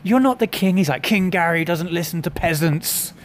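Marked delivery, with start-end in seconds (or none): 0.0-0.8 loud, high-pitched imitated scolding; mock exasperated retort. Girlfriend telling off the self-styled king, mock exasperation. 1.0-3.1 slow, grand proclamation; mock haughty king. King Gary dismissing his girlfriend as a peasant, hammed-up haughtiness.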